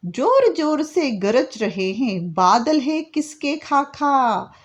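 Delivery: slow, deliberate reading of the poem line; poem recitation. Shown as a demonstration. Teacher reading the poem aloud slowly to her students. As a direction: recite each word slowly for the class. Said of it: "बाद में है बच्चों".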